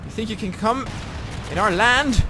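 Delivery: high screaming rage at enemies; furious battle yell. Real, not acted. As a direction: scream it like a berserker. Raging at enemies in game.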